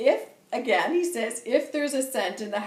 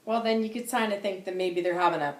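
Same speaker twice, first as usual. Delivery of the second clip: laughing. Real, not acted. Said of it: "Sorry, I'm laughing".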